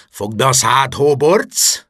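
McGonagall snapping. A narrator's reading. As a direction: snap at the troublemaker to shut up. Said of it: "ripakodott rá McGonagall". (hangos, ingerült ráripakodás)

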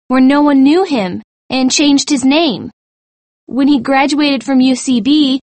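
high, excited chain of deductions; high-voiced student sleuth solving the mystery. A narrator's reading. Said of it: "said Michelle excitedly".

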